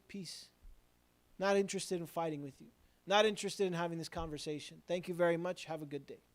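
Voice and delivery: calm dismissal. Acted. Believer answering people who come to argue, calm dismissal. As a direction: decline the argument quietly and politely.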